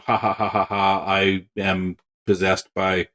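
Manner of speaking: hammy cartoon villain with laugh; mock evil gloating, low; mustache twirling villain. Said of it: "not just mustache twirling".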